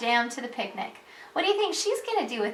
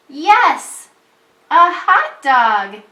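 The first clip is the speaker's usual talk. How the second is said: loud, higher-pitched excited exclamation; excited yell; 3 semitones higher, 9 dB louder, much slower than usual. Shown as a demonstration. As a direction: read it out like an exclamation point. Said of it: "yells Jim".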